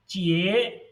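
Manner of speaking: "jie" dipping then rising; third tone. Shown as a demonstration. Teacher demonstrates the third syllable, "jie" in dipping third tone. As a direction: fall and climb back on "jie". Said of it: "given tone is third".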